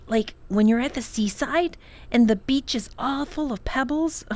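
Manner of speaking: a brother rushing to back his sister; eager boy. Acted. Tom defends Lindy eagerly.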